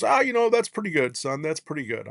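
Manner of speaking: lightly voiced old guy, starting high and falling away; salty old-timer humoring a rookie; mock-encouraging old instructor. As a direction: tease with insincere praise, pitch dropping as you go. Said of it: "this old guy making fun of me".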